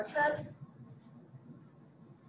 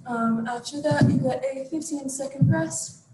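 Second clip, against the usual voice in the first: out of breath. Real, not acted. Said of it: "really catching my breath here".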